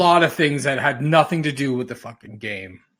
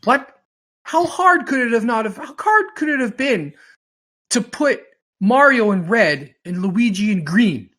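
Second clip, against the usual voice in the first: high, loud incredulous outburst; exasperated disbelief; 11 semitones higher, 7 dB louder than usual. Retold or imitated. Podcaster retelling his reaction to a Mario costume, incredulous and much higher. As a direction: throw up your hands at the costume mistake. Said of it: "I'm like".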